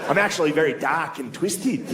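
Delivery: mock Australian goth insisting on himself; earnest goth with an Australian accent; comic impression of an Australian accent. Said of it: "You're Australian. You sound funny".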